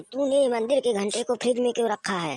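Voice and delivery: high, sharp scolding from a cross mother-in-law. Acted. Mother-in-law scolding her daughter-in-law, high and cross.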